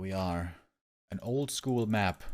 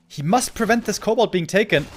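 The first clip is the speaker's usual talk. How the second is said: urgent caster call; excited; 9 semitones higher, 8 dB louder than usual. Real, not acted. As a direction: raise the stakes loudly. Tense moment in game.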